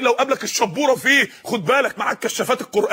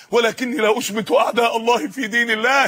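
shouted quote. Real, not acted.

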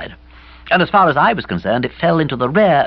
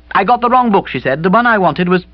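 put-on higher, lively young woman's voice; Bobby's young voice; 8 semitones higher, 4 dB louder than usual. A narrator's reading. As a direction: voice Bobby brightly as she walks in. Bobby's voice in story.

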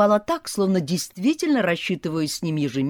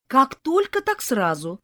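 high rising whiny promise; mock pitiful tenant; pitiful excuse; 10 semitones higher, 4 dB louder than usual. A narrator's reading. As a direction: plead sweetly to delay payment.

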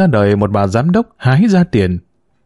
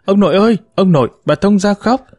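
put-on high, delighted child calling out to grandpa; happy little girl shouting for grandpa, pitch up; excited call; 8 semitones higher than usual. A narrator's reading. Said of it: "mừng quính lên gọi to".

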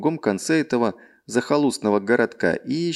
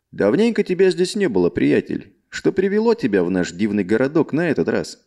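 friendly merchant. Acted. Merchant greets an old friend.

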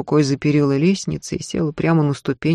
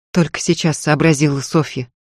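ordinary delivery, nothing marked

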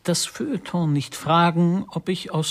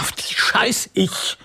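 bitteres Flüstern; slower than usual. Acted. Geflüsterter Fluch, bitter.

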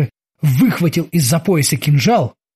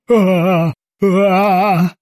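frightened yell; 3 semitones higher, much slower than usual. Acted. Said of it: "вдруг заорал Эрик".

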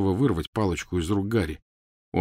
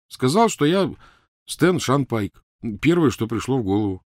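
put-on higher, animated young man's account; lively explaining, pitched up from narration; Ron, eager storyteller; 5 semitones higher, 3 dB louder than usual. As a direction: recount the misadventure energetically. Ron tells his story.

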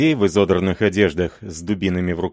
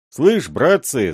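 higher, louder, slow call; rally the mob, drawn out; crowd shout; 6 semitones higher, 4 dB louder, slower than usual. A narrator's reading. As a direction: robbers rousing the others, louder. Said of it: "закричали другие".

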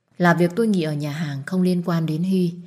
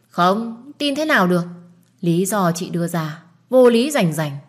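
indignant disbelief; 4 dB louder than usual. Acted. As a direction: push back at a flimsy excuse. Sister rejects the excuse in quarrel.

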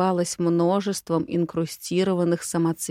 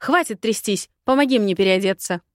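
impatient, quickening command; cross and hurried, getting louder; barked order; 4 dB louder than usual. Acted. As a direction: snap orders at the maid. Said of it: "гаркнула на девчонку".

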